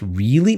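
REALLY with a rising questioning lift; quick questioning REALLY, lifted at the end. Acted. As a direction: ask REALLY as a surprised character might. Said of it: "Maybe not with that tone".

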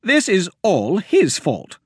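high, loud blaming tirade; angry accusation. Acted. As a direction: she spits blame at the farmer. Myra blames Wilmer.

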